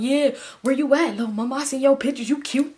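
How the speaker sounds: hint of a smooth-talking guy calling out; mock flirty caller; flirty homeboy. Homeboy voiced flirting in background.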